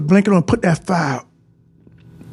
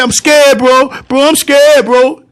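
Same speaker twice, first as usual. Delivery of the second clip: mock scared; 4 semitones higher, 4 dB louder, slower than usual. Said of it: "so I said".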